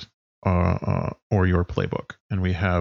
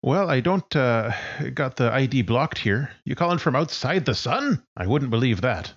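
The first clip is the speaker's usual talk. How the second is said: higher, friendly voice of a friend; Sarah D; 4 semitones higher than usual. Acted. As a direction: answer the call like an old friend.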